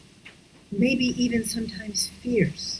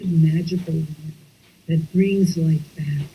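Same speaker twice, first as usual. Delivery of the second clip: whispered; 3 semitones lower than usual. Shown as a demonstration. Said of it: "whispered slow".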